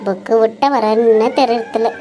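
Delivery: low, muttered complaints; daughter-in-law muttering about her crazy in-laws; grumbling to herself. Acted. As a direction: mutter under your breath, fed up.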